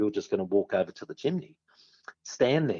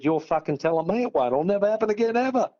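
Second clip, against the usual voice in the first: rising higher, indignant mock outburst; emphatic retort; 7 semitones higher than usual. Timmy snapping back at the smug guard, rising higher. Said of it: "I said".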